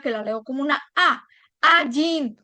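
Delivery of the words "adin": "Adin" with its second syllable drawn out; stress on last syllable. Shown as a demonstration. Teacher showing learners where the accent falls, "Adin" stressed on the i. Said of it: "recae en la i".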